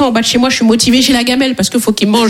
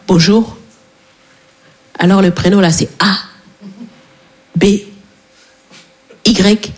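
lower, slow, deliberate spelling out; imitating her dad; 6 semitones lower, slower than usual. Father at the registry office spelling the name, lightly voiced low and slow. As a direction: spell it out slowly like a vague dad. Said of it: "il est arrivé à l'état civil comme ça".

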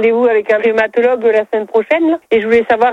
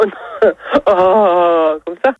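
laughing; 4 semitones lower, much slower than usual. Real, not acted. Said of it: "un peu plus grave".

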